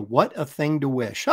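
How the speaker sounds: chuckling through the line, a bit slow; amused repeat. Acted. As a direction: savour the line with a laugh. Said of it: "repeats the line, laughing".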